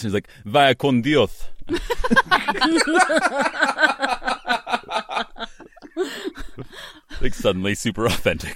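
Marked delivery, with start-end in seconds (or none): 0.4-1.4 put-on laughing, louder Spanish accent; authentic Spanish accent. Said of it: "talking like this". 1.5-7.2 long high-pitched wheezing laugh. Real, not acted. Laughing at own joke.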